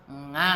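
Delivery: "Nga" as a nasal ng instead of the Arabic ain; wrong nasal reading. Retold or imitated. Teacher imitating old teachers who read ain as nga. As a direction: say "Nga" through the nose like the old Javanese teachers. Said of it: "habis itu bacanya apa".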